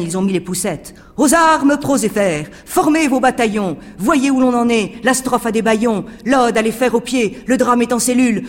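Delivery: high, loud call to arms; rallying shout. Acted. Poet reading out his proclamation, shouting to the crowd. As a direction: proclaim it like a street orator.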